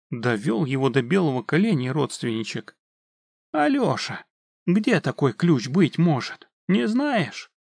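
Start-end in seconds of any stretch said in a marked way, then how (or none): 3.5-7.5 high coaxing wheedle; butter him up, high and sweet; sweetly pleading tone. Acted. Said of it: "совсем другим тоном обратился к парню".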